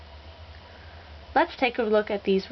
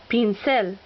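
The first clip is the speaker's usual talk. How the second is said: pincel with CEL stressed; stress on last syllable. Shown as a demonstration. Teacher showing examples of rule two, stress on last syllable. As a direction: land on the final syllable of pincel. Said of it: "accent on the last syllable".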